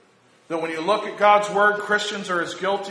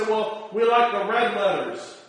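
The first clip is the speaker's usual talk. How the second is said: mocking; 2 semitones higher than usual. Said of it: "some people will even give you".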